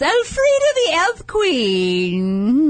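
slow, drawn-out cat voice; kitten voice. Shown as a demonstration. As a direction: stretch it out like a purring cat. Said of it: "Sounds a lot like cat voice".

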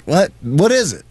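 mildly exasperated, insistent retold demand; exasperated questioning. Host retells pressing the boyfriend for his question, exasperated. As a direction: push him to come out with it.

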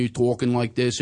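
light Philadelphia vowels; a hint of Philly talk; Philadelphia accent. Shown as a demonstration. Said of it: "so now you're in Philadelphia".

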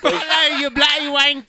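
high British greeting, put on; mock British. Greeting caller in British bit.

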